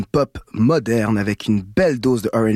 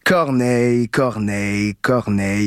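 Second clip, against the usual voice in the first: "Corneille, Corneille, Corneille" repeated in a fond, delighted chant; gushing repetition; 3 semitones lower, slower than usual. Acted. Radio host gushing over his idol before calming down, fond repetition. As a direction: keep relishing each "Corneille" as if you can't stop. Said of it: "Je pourrais prononcer son nom pendant des heures".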